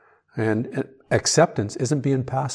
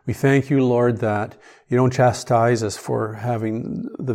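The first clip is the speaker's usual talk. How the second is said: louder, fervent spoken prayer; earnest pleading prayer; 4 dB louder than usual. Acted. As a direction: pray it out earnestly to the Lord.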